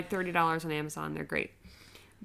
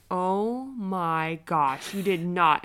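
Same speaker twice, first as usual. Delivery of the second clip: drawn-out disbelief; 4 dB louder, much slower than usual. Retold or imitated. Mom disbelieving toddler's confession.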